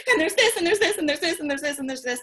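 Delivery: high-pitched gush, starting loud and gradually easing; venting run-on. Retold or imitated. Girlfriend in the pub unloading about her day, breathless venting. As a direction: pile up complaints without a break. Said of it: "after ten minutes of her saying that".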